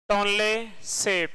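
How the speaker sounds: टोनले सेप drawn out slowly, syllable by syllable; slow, spelled-out name. Shown as a demonstration. Teacher slowly dictating the lake name to students. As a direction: stretch out टोनले सेप so the class can follow.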